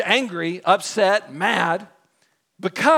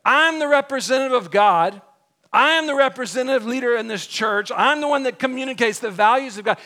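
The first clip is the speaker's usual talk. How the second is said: loud, higher proclamation of authority; acted pompous religious official; self-important leader; 5 semitones higher, 6 dB louder than usual. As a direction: declare your rank, louder and raised. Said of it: "and he's saying".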